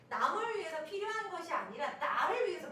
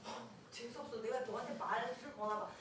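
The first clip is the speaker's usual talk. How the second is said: lower, acted huffy grumble; mock resentment; 4 semitones lower, 3 dB quieter than usual. Rebuffed friend resenting the brush-off, acted sulky offence. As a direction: imitate an offended child turning away.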